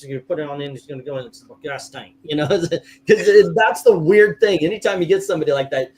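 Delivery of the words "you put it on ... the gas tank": mumbler with only the last words clear; imitated garbled mumble. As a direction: run the words together, then land the last ones clearly. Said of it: "the last words they say is always clear".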